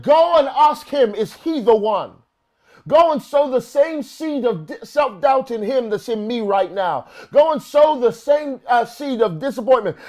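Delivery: urgent command. Retold or imitated. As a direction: press them to go and ask, voice lifted.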